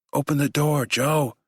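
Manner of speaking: high shout through a door. Acted. Husband banging on the locked bedroom door, shouting. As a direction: call her name hard. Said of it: "he shouts".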